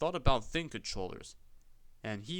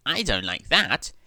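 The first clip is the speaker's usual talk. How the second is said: earnestly; 10 dB louder than usual. A narrator's reading. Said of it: "he remarked earnestly".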